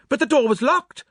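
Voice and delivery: high, loud, startled questions in bursts; disjointed exclamations. A narrator's reading. Onlookers react to forced lock, startled outbursts. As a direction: burst out with each question separately. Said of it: "These exclamations burst from us disjointedly".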